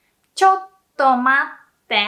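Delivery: breezy, fast informal ちょっと待って; casual. Shown as a demonstration. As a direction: toss it off casually to a friend.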